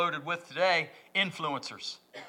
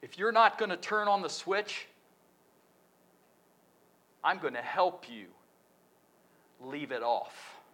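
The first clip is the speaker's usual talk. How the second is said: quiet voicing of God; 9 dB quieter than usual. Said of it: "You know what God says?".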